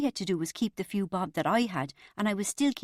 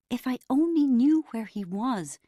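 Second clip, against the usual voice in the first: slow, raised wail of agony, not whispered; agonised; 5 semitones higher, 5 dB louder than usual. A narrator's reading. Bridget frets over where Carlos is, agonised. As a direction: draw it out in anguish, loud and high. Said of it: "Bridget whispered in agony".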